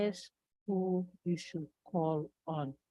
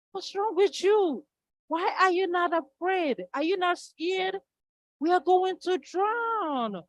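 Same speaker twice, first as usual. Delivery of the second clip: much higher and louder, panicked questions; the wife yelling at her unbothered husband; frantic shouting wife; 12 semitones higher, 7 dB louder than usual. Acted. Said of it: "She was panicking".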